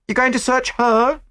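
high, indignant challenge; demanding. A narrator's reading. Chambermaid demands of the inspector, pointing, indignant. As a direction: demand it sharply, pitched high. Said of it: "she demanded".

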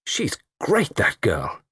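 exclaiming. Acted.

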